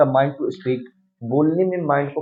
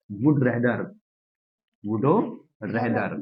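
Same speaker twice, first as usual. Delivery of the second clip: "वुड", a pause, then "रेदर" lower; word by word; 4 semitones lower, 4 dB quieter than usual. Shown as a demonstration. Teacher writing the formula for class, word by word. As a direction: split "वुड रेदर" with a gap.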